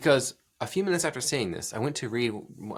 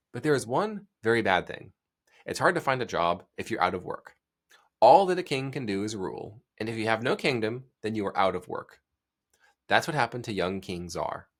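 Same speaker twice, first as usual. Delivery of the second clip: reading a simple story aloud, evenly; children's book reading. Acted. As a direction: storytime read of a picture book page. Reads first page of book.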